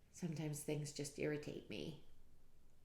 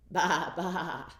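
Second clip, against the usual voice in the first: sheep bleat; 11 dB louder than usual. Acted. Reading to a child, a bleating sheep. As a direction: bleat baa baa. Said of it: "And the sheep said".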